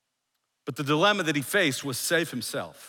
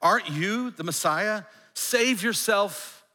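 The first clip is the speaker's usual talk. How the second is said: raised, taunting challenge; hurled insult; 5 semitones higher than usual. Acted. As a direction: taunt him, drawing out the last words. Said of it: "hurled insults at him".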